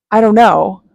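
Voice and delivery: mock yell. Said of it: "starts screaming".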